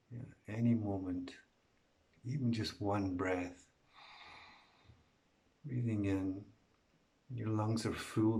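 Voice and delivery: lightly hushed meditation voice with lingering pauses; guided meditation. Real, not acted. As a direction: gently guide listeners into stillness.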